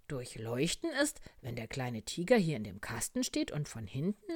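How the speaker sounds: animated, swooping expert explanation; doctor frog explaining. Acted. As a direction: explain it loudly with big swings in tune. (lebhaft erklärende Arztstimme)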